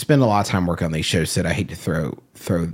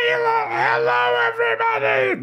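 squeaky natural voice. Shown as a demonstration. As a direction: squeak it out like an awkward beginner. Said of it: "that's my natural voice. This is all a put on".

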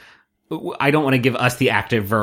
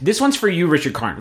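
dedication; 4 semitones higher than usual. Acted. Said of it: "this musical stinger is an ode".

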